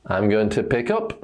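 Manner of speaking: "pick up" with the stress on UP; stress second word. Shown as a demonstration. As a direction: lean on "up" in "pick up". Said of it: "stress the second word".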